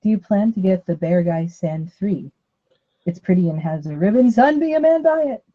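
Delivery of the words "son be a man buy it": stern father. Pretend. Quoting Mulan song line.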